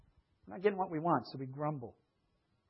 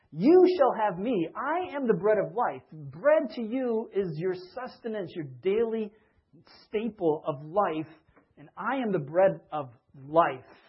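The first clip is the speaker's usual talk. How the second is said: voicing Jesus; 3 semitones higher, 6 dB louder, slower than usual. Jesus voiced in sermon.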